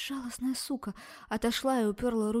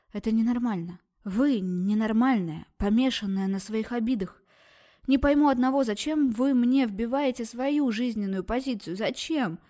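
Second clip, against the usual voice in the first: angry yell; 2 semitones higher, 5 dB louder than usual. Acted. Girl shouting at the obsessed doctor, furious. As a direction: hurl it at her.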